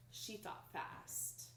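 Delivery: whispered suspense; hushed. A narrator's reading. Teacher whispering the suspense to kids. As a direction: drop to a secretive whisper. Reading aloud, suspense line.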